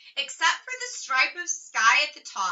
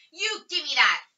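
louder, higher grab for his lollipop; demanding; 5 semitones higher, 5 dB louder than usual. A narrator's reading. Wayne demands his lollipop back from Ramona, loudly. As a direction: give it back now.

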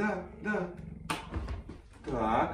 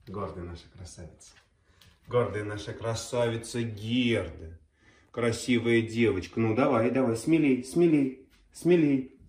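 talking to a dog; 4 semitones lower than usual. Real, not acted. Coaxing the dog.

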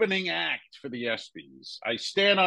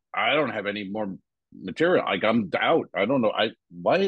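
lower, halting, mildly flustered excuses; stuttering protest; 4 semitones lower than usual. Retold or imitated. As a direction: stammer out broken half-sentences. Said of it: "as I'm stuttering and being like".

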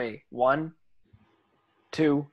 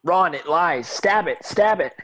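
urgent plea; 4 semitones higher, 4 dB louder than usual. Acted. Harry urges Ron to strike.

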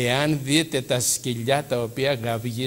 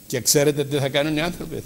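usual speaking voice

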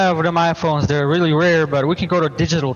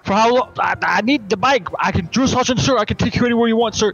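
higher, dim-witted private answering his sergeant; eager soldier; 4 semitones higher than usual. Acted. Soldier with brain injury answers his drill sergeant, eager and higher. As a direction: play a dopey recruit reporting for duty.

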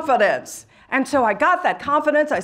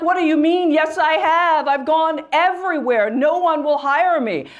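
higher-pitched, mildly indignant retort; indignant protest; 3 semitones higher than usual. Retold or imitated. Young woman arguing with God over jobs, indignant protest. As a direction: argue back, a touch affronted.

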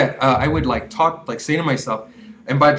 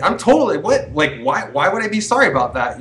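mock indignant questioning, pitched up at first; defensive denial; 4 semitones higher than usual. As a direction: act out refusing to apologize. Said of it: "the other way to go about it would be like".

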